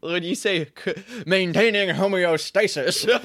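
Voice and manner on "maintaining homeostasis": "maintaining homeostasis" in a put-on voice, drawn out; "maintaining homeostasis" in a silly voice; odd voice. Shown as a demonstration. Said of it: "every time you say that, it's, like, a different way".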